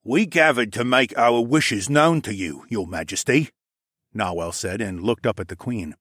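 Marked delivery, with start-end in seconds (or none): 0.0-3.5 lightly voiced petitioner. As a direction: lightly play a subject pleading his case.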